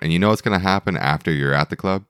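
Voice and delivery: ordinary talk, nothing marked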